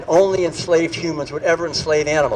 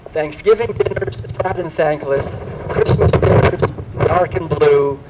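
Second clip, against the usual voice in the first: poetry reading; 3 dB louder than usual. Shown as a demonstration. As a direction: recite it like a poem on stage. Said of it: "and this poem, uh, goes like this".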